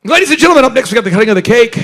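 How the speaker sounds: loud, high announcer call to the room; DJ announcement. Retold or imitated. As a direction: boom it out like a wedding DJ. DJ announcing at wedding.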